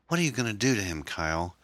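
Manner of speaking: high, anxious woman's voice; fearful, high questioning; worried question. Acted. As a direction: ask in high-pitched dread. Erin fears for Tom.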